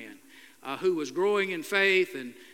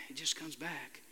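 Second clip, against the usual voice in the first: much softer, trailing away; fading echo; 2 semitones lower, 11 dB quieter than usual. Retold or imitated. Pastor quotes the young man, repeating it much softer. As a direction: let it fade out like an echo.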